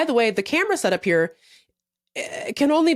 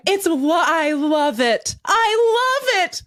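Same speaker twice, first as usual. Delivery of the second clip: slow, laughing mock gush; imitating Nancy; 4 semitones higher, slower than usual. Nancy cooing while Kelsey cries, a slow laughing mock gush. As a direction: say it through giggles. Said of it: "Nancy's just going".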